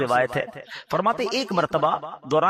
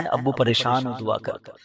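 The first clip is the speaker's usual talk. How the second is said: put-on pleading child; 4 semitones lower than usual. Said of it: "ہیں".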